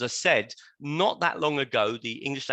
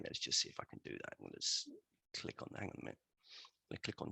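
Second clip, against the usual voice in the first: 1 muttered aside; 9 semitones lower, 16 dB quieter, much faster than usual. Real, not acted. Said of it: "muttering to himself while screen sharing".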